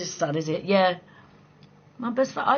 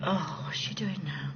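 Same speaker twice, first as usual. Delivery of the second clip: whisper; 6 semitones lower, 8 dB quieter than usual. Real, not acted. Muttering to herself at chat.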